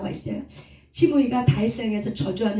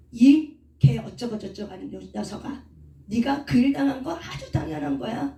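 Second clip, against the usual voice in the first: mock cursing; 2 semitones higher than usual. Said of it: "하면서 막 저주를 퍼붓는 거야".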